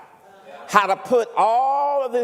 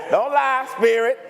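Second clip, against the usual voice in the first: laughing tease. Real, not acted. Teasing crowd about cheap airline.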